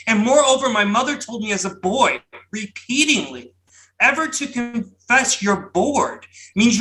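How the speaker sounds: dramatic booming poetry recitation. Pretend. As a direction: boom it out like a grand old poet. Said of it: "my most outlandish Berryman-esque booming voice".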